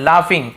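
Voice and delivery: लाफिंग said with a clear f sound, "laa-fing"; teacher modelling लाफिंग as "laa-fing"; pronunciation demo. Shown as a demonstration. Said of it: "फ ऐसे उच्चारण निकलता है".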